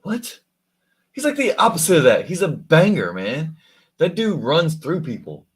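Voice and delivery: surprised. Real, not acted. Defends player, shocked.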